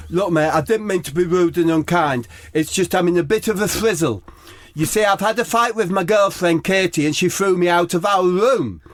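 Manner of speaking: high, sing-song posh whine; high Harry Kane voice. Acted.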